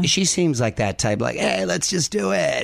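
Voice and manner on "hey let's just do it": lightly raised, slow, carefree pop-star voice; a hint of a breezy pop singer; pop-singer impression. Co-host imitating a singer's carefree attitude, lightly voiced. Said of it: "Is that your singer impression?".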